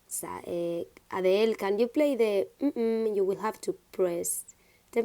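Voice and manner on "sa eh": whispered aside. Real, not acted. Aside under breath.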